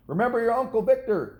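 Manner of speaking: put-on high, loud call after a running child; calling after him. A narrator's reading. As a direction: shout it after him as he runs off. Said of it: "his mother called after him".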